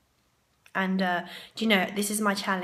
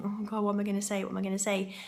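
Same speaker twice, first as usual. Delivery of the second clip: nervous; faster than usual. Retold or imitated. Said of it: "I was starting to get a bit nervous".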